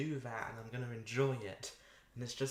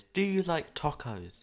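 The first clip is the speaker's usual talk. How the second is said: loud, drawn-out question, pitched up; calling out; 4 semitones higher, 9 dB louder, slower than usual. Real, not acted. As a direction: put it slowly and loudly to someone far away. Calls out a question to Nova.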